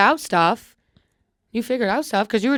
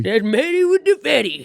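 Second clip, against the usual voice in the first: lightly put-on Black voice; a hint of an African American accent; 4 semitones higher than usual. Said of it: "That's my black voice".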